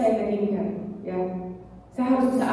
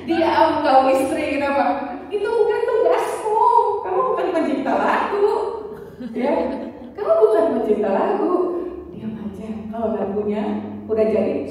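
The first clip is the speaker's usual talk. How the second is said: hammed-up husband telling his singer wife to hush; mock bossy husband; 4 semitones higher than usual. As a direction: play the husband shooing his wife off, half laughing. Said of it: "Apa yang dikatakan suami saya?".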